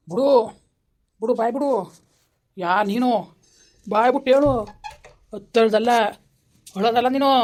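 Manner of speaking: stern command. Acted. Exorcist orders spirit to speak.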